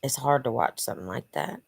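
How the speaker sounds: real emotion, voice sinking low and soft; struggling to hold back tears while speaking; choked up. Real, not acted. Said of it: "I kinda get emotional with that".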